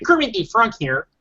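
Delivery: Kermit the Frog. Retold or imitated. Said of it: "a little Kermit the Frog".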